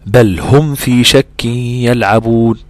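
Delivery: بل said with a clear, unmerged lam, slow; clear bel, no nasal. Shown as a demonstration. Teacher demonstrating clear lam in a slow recitation. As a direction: recite بل هم slowly with the lam fully pronounced. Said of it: "تقول إيه؟".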